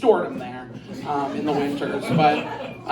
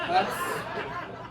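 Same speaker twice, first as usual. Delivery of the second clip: whale noise; 11 semitones higher, 8 dB quieter than usual. Shown as a demonstration. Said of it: "that's the whale noise".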